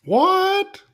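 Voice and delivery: high shouted what in disbelief; shocked what. Real, not acted. Streamer reacting to the rant, shocked shout. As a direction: blurt it out, stunned.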